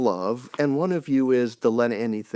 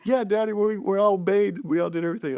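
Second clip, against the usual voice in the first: put-on higher, eager children's voice; eager kids; 7 semitones higher, faster than usual. Children telling their dad they obeyed, lightly voiced. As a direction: chirp it like proud little kids.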